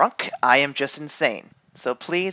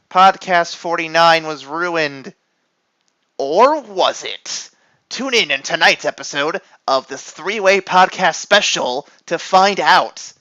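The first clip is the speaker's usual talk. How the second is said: trailer voiceover. Acted. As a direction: drag it out like a cliffhanger tag.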